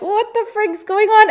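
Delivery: high-pitched, startled disbelief; mock-startled storytelling quote; retold alarm. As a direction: blurt it out, alarmed and baffled. Retold alarm at man with gun.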